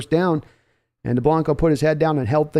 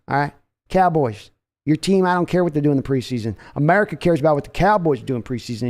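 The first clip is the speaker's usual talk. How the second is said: lightly voiced boastful team owner; a hint of a swaggering Texan owner; Jerry Jones impression. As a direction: brag about your team like a proud owner. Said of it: "Love this Jones impression".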